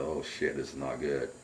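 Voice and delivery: low, soft aside to yourself; retold dread. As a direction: sink into a hushed realization. Retold dread after the scream.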